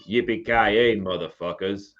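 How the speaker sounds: lightly attempted American action-hero accent; Bruce Willis. Shown as a demonstration. Aussie host asked for an American movie line, trying an American accent. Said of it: "hear a good American impression".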